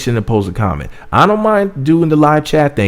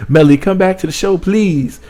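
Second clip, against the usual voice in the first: begging; 5 semitones higher than usual. Real, not acted. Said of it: "I'm gonna keep on begging".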